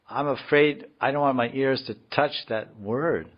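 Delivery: high-pitched mock dread; lightly hammed-up alarm; acted fear. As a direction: play the devotee shying from a word. Acts out fearful devotee.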